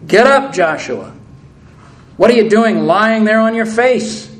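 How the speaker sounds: lightly voiced stern God calling Joshua up; sharp rebuke. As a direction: scold him to his feet, mildly acted. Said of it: "I imagine he spoke it rather sharply".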